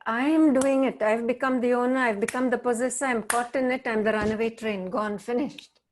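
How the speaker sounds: loud, rushing pile-up of phrases; caught-up outburst. Acted. Teacher voicing someone carried away by a feeling, loud and rushed. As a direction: start loud and tumble on, easing toward the end.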